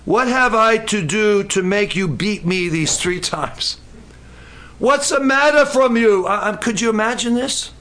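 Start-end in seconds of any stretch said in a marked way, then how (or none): 0.0-6.2 plead, then protest as the beaten donkey; a hint of an aggrieved donkey; donkey talking back. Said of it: "the donkey said to Balaam".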